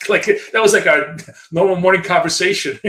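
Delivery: laughing through the words, high and loud; cracking up while telling it. Real, not acted. To the stream audience, laughing about morning fights.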